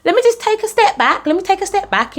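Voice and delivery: high hesitant retreat; uneasy inner voice. Retold or imitated. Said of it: "and I was like".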